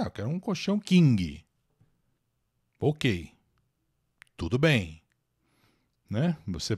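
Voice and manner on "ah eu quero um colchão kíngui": king as "KIN-gui", higher customer line; Brazilian added ending. Acted. Shopper asks a store for a mattress, Brazilian pronunciation. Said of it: "você chega lá e fala assim".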